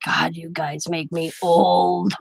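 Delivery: dragged out very slowly, low; slow lament. Retold or imitated. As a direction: stretch every word like a tired old man. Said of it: "he's like".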